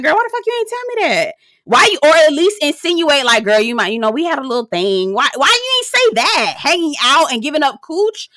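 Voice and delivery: high-pitched acted exasperation; annoyed. Friend confronting a friend who hid a hookup, acted annoyed. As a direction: demand an explanation, pitch jumping up high. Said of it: "I would be annoyed too".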